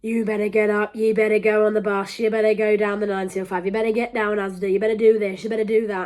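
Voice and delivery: a hint of a stern scolding voice; nagging society. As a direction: boss them around like a nagging parent. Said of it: "Everyone's going".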